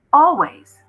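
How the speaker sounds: loud, high eerie voice of the watch; a haunted device calling out. A narrator's reading. The watch speaks.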